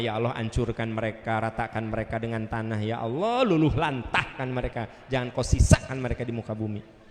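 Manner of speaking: low chant-like prayer, building in force; mock pious curse in prayer tones; vengeful prayer. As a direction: pray for their ruin, low and intense.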